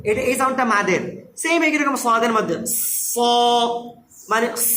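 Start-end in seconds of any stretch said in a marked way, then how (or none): 3.1-4.7 "স" with a held hiss before a heavy vowel; Sad articulation. Shown as a demonstration. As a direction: show the consonant part of a thick "স". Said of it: "এটা হলো সাদের উচ্চারণ".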